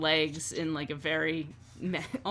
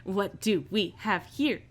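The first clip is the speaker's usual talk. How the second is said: lightly voiced curious boss; a hint of theatrical curiosity; intrigued boss; 3 semitones higher than usual. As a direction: size up the visitors with relish. Vera eyes the newcomers.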